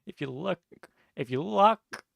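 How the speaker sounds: high, loud mad inventor; cackling mad scientist, high and loud; crazy architect voice. Acted. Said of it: "I'm crazy".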